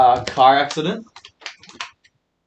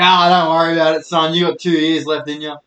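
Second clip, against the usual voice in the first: nonchalant mum. Retold or imitated.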